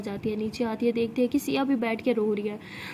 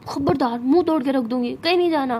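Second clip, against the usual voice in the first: louder, forceful warning; mock threat; 4 dB louder than usual. Tara forbidding Siya to go to anyone else, threatening. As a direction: warn them off possessively.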